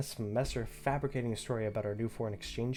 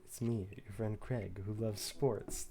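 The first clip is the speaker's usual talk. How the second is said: stilted message reading; 3 dB quieter, slower than usual. Acted. Reads out Craig's stilted text message.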